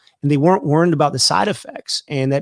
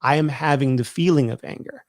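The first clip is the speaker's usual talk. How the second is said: sincere. Shown as a demonstration. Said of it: "you instead sincerely say".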